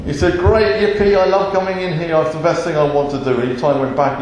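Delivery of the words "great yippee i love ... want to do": mock delight, tumbling out; sarcastic glee. Moses going back to Pharaoh, sarcastically delighted. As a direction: feign enthusiasm for a dreaded chore.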